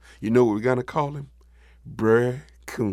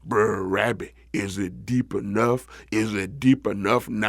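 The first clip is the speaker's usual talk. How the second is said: deep frog call, last word held long; big frog calling; 3 semitones lower than usual. Acted. Frog calls up to Rabbit again.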